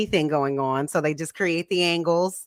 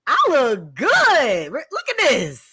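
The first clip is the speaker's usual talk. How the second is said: put-on proud older self; 6 semitones higher than usual. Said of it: "then you're gonna be able to look back and be like".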